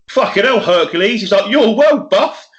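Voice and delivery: high, loud mock amazement; amazed admiration. Colleague greeting the bodybuilder at work, retold amazement.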